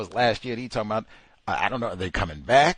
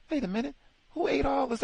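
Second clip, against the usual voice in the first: much higher, indignant double take; mock surprise; faster than usual. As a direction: act shocked the snacks are gone. Acting out finding snacks gone.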